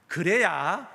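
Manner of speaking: Jeolla lilt, swooping up and down; teasing Jeolla dialect tag. Shown as a demonstration. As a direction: draw it out with a playful Jeolla intonation. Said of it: "방언 억양으로".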